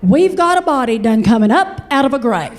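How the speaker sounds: Appalachian done coming up, stressed; savoring dialect. Retold or imitated. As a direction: relish the word done. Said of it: "repeated with done".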